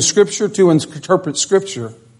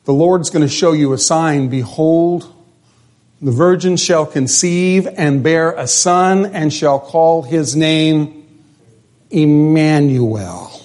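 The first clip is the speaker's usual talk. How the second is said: scripture reading; slower than usual. Acted. Reading the prophecy.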